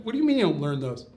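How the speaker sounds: quick, puzzled comeback; puzzled disbelief. Retold or imitated. Student questioning a man about forbidden books, quick disbelief. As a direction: question it quickly, taken aback.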